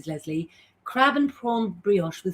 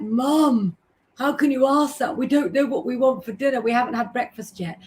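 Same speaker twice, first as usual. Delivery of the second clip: put-on higher, louder exasperated teenage daughters; daughters' protest; 4 semitones higher, 3 dB louder than usual. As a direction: mimic the kids objecting to mum. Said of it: "And they're like".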